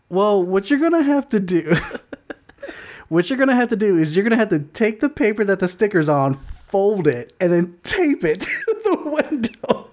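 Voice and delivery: quoting the clerk while laughing; can't keep a straight face; laughing through it. Retold or imitated. Clerk's advice, retold laughing.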